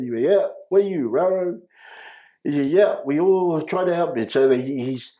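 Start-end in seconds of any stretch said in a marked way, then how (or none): 0.2-4.3 Lucky's broken English. Retold or imitated. Lucky explaining the Panthers to the kids, mock broken English.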